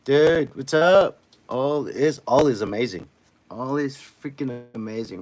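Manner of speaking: loud, high, hyped greeting; excited shout. Real, not acted. Streamer hyped to greet chat, loud excited shout. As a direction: burst back in cheering at the chat.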